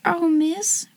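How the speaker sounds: soft, high, awed exclamation; barely daring to speak, touched; breathed. A narrator's reading. Servant girl overcome by a hug, breathed. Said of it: "breathed Becky".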